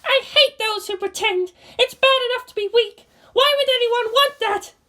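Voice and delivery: high scornful voice; bitter. Acted. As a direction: spit out contempt. Asuka bitter.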